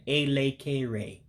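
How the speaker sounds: Elekere drawn out as ay-lay-kay-ray; slow Elekere, every E an "ay"; E's as A sounds. Shown as a demonstration. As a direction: say each E in Elekere as "ay". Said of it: "Remember the E's making A sounds".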